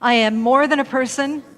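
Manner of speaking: leading affirmation. Shown as a demonstration. Minister leading congregation in affirmation, bold and lifted. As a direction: call it out for the room to echo. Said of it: "we'll do an affirmation together".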